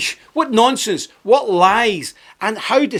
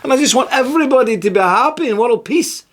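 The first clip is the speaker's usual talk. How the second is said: much higher, sing-song mocking girl; mock Greta; 9 semitones higher than usual. Mocking the girl's save-the-planet talk, high sing-song. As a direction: prance it like a naive do-gooder. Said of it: "She's into all that stuff".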